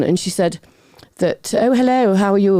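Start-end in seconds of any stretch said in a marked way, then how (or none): 1.6-2.5 high, put-on polite greeting; misquoted Georgie. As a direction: imitate someone wrongly quoting a friend's hello. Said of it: "George doesn't speak like that".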